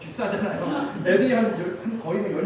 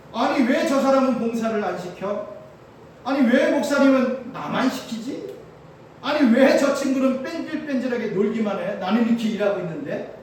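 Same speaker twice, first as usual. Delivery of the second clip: louder, exasperated complaints imitated; mock angry grumbling; 3 semitones higher, 5 dB louder than usual. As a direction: whine about the unfair workload, voice raised. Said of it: "막 화를 내는 사람들입니다". (불공평하다며 짜증 섞어 따지듯)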